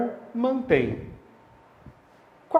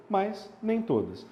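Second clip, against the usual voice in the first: "nem" slowed and stretched; slow emphatic "nem"; stress on nem; 4 semitones higher, 4 dB quieter, slower than usual. Shown as a demonstration. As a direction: lean on "nem" slowly. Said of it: "teacher stressing nem".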